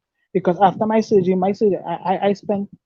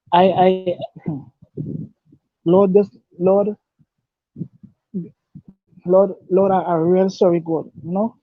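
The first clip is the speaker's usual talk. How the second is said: choked-up emotion. Real, not acted. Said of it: "I just getting emotional".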